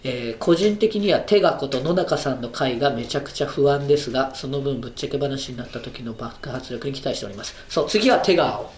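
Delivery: stuffy nasal voice. Real, not acted. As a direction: talk through a blocked nose. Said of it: "途中からまた鼻声になってる".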